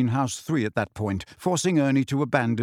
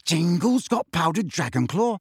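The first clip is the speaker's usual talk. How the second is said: eager; 4 semitones higher than usual. Acted. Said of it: "said Ron eagerly".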